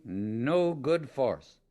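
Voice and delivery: no good force drawn out very slowly, each word weighted; solemn, slowed-down emphasis on "no"; slow emphatic warning. Acted. Emphatic warning about astral world.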